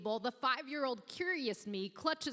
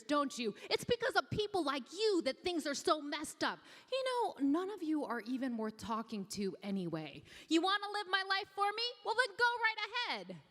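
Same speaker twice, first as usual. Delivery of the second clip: crying outburst; 5 semitones higher, faster than usual. Acted. Five-year-old self bursts into tears at her older selves, crying rant. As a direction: let the floodgates open, pitch soaring by the end. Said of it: "starts crying. The floodgates go wide open".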